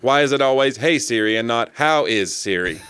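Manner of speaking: a hammed-up assistant with a grievance, slowing down; Siri. Phone assistant complaining to its owner about always being summoned, mock Siri voice. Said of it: "That's my Siri voice".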